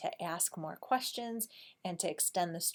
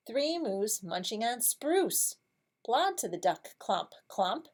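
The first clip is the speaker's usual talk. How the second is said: slow, rhythmic story reading; picture-book reading; 4 semitones higher, slower than usual. Shown as a demonstration. Teacher reads about moose helping the duck, slow lively storybook voice. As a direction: read it in measured, lively beats.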